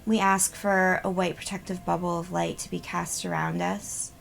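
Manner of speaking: measured, even prayer with pauses between petitions; spoken invocation. Real, not acted. Healer calls in guides to protect the group, measured invocation. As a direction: recite a protective blessing, evenly paced.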